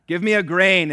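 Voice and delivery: pleading shout from the roadside; loud cry. A narrator's reading. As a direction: yell out for a grain. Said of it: "cry out for a grain".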